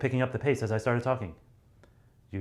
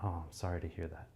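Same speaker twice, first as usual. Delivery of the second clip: soft, simple sympathy; understated condolence; plain condolence; 3 semitones lower, 11 dB quieter than usual. Shown as a demonstration. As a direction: say it simply and quietly. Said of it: "you might just be like".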